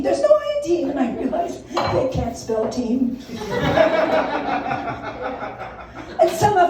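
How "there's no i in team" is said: even higher, pushier coach repeat; coach speech. Retold or imitated. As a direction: hammer the slogan home to little kids. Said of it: "the good coach speech".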